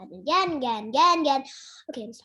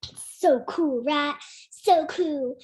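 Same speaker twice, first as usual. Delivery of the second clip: character voice; 3 semitones higher, 5 dB louder than usual. Retold or imitated. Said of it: "why am I talking like Babel Drake again".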